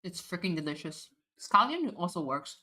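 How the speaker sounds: talking through a mouthful; words round a bite of food; chewing while talking. Real, not acted. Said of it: "Sorry, I'm munching a little bit".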